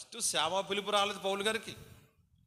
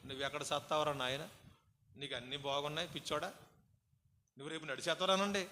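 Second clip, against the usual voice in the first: comforting the sick man; 2 semitones lower, 3 dB quieter than usual. Shown as a demonstration. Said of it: "మాటలో శక్తి అని చెప్తాను చూడండి".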